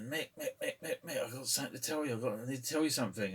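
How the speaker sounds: mock-urgent bar crowd nagging; urgent calling. Bar crowd pestering Mick, a lightly voiced urgent call.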